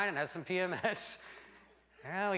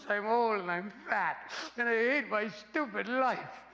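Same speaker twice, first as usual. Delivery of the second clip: slow, whiny lament; wife whining; 2 semitones higher, slower than usual. Pretend. Wife complaining to husband, slow whiny lament. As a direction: wail it like a fed-up wife. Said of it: "And she go".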